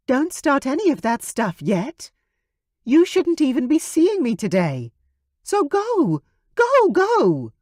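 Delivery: high, loud, rising urgency; urgent shooing. Acted. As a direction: shoo him out the door. Veronica shoos him away.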